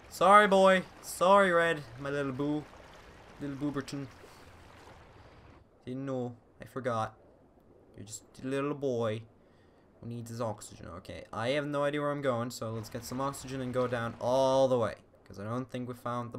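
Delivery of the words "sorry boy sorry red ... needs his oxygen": tender apology. Real, not acted.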